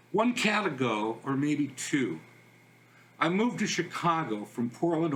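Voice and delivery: measured reading, pausing after each phrase; understated poem recital; poetry reading. Acted. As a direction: read your own poem line by line. Reads own poem aloud.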